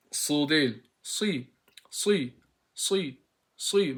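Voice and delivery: "Sı" repetido despacio, sílaba aislada; letter demo. Shown as a demonstration. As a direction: repite "Sı" como maestro de tajwid. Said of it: "Mahreci farklı".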